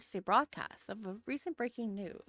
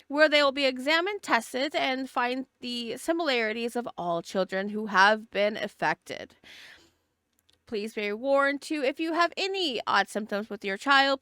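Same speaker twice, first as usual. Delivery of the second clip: news anchor delivering breaking news; urgent TV news report; reporter voice; 3 dB louder than usual. Acted. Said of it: "Should I do a reporter voice?".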